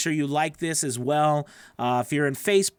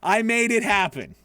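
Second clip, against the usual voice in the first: much higher, loud victory yell; triumphant cheer; 6 semitones higher, 7 dB louder than usual. Retold or imitated. Imagined player cheering the ball reaching the end, a loud, high victory yell. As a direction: celebrate like you just scored. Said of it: "and you're like".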